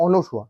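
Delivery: অনসুয়া with "no" in the middle; correct pronunciation. Shown as a demonstration. Teacher restating the right form, অনসুয়া with "no". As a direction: say অনসুয়া as ɔ-no-shua. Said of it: "উচ্চারণটা হচ্ছে".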